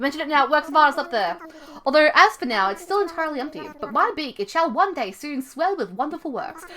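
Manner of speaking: lilting British owl voice; resume the tour as a British owl; hammed-up British museum guide; British accent. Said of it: "give him some kind of British accent".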